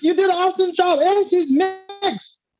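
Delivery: sing-song reassurance to Jenny Slate; lightly mocking voice. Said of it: "I was like".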